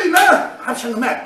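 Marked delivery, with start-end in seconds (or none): 0.0-0.1 high drawn-out cheer; crowd cheer. Retold or imitated. Audience greeting the athlete on stage, imitated cheer.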